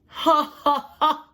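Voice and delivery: loud high mocking ha ha ha; crocodile laugh. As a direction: laugh at the silly hen. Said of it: "Crocodile laughed".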